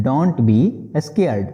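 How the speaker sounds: slow restatement before explaining; slow repeat. Shown as a demonstration. Teacher repeating the phrase slowly before translating. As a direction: say it again slowly. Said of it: "बोलेंगे".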